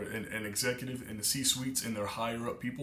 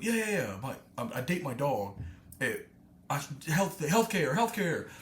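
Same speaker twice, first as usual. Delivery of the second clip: eager oddball rant; 4 semitones higher than usual. Retold or imitated. Dog guy insists to the group, eager high rant. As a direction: push it out eagerly, pitched up. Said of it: "He's gonna go".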